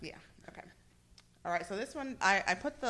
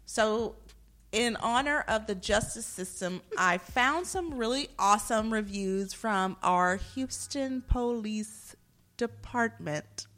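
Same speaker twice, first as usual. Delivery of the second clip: hammed-up announcer voice; drawn-out, showy segment intro; exaggerated cartoon intonation. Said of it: "Why are you talking like that?".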